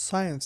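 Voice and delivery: সায়েন্স starting on plain S, no K sound; silent C. Shown as a demonstration. Teacher showing learners the science word, silent C. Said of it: "এখানে সি এর উচ্চারণ হবে না".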